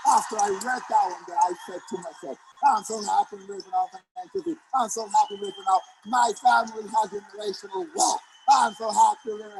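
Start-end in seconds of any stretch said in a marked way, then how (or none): 2.7-9.6 with energy. Retold or imitated. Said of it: "with so much energy, with so much passion".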